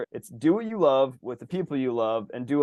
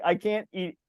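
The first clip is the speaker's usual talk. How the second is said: mock nausea; 3 semitones higher than usual. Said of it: "I'm like".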